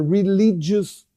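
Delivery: "religious" stretched out and emphasized; stress on religious. Real, not acted. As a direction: hit the word "religious" deliberately. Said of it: "I stress this word so much".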